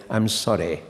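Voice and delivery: put-on "I'm sorry" in a light posh RP accent; a hint of Reith's old RP. Lecturer apologizes the way Reith would, lightly imitated RP. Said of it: "as Reith would say".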